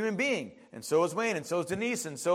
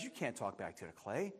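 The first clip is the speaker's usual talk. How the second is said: God's stern voice; 12 semitones lower, 18 dB quieter than usual. Acted. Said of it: "God says".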